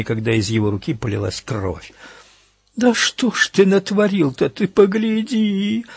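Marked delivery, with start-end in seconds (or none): 2.7-5.9 wailing. A narrator's reading. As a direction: wail it like a frightened woman. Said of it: "заголосила Тилли".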